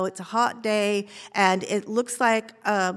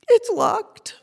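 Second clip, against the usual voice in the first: high, shocked disbelief; 13 semitones higher, 8 dB louder than usual. Real, not acted. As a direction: gasp it out in surprise. First take.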